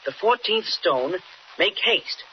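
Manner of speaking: slow, measured reading of a rhyme; reading a riddle aloud. Acted. Boy reads the old riddle to Aunt Lou, slow and measured. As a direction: read each line out slowly, like a puzzle. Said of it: "Read what it says".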